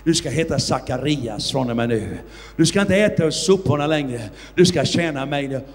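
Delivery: a hint of a solemn heavenly voice; voice of Jesus. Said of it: "Och rösten sa".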